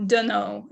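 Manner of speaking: "dunno" slurred into one quick casual word. Shown as a demonstration. Teacher shows how people say "dunno". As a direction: run "dunno" together like relaxed speech. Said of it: "sometimes people say".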